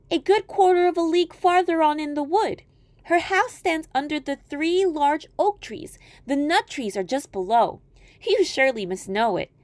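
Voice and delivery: put-on high, innocent girl reply; a trusting child thanking a stranger; little girl voice. Girl answers wolf.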